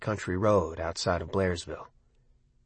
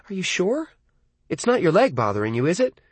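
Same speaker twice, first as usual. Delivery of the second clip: higher, worried mother; mother's voice; 8 semitones higher than usual. A narrator's reading. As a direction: mom pressing her question. Narrator voices his mother.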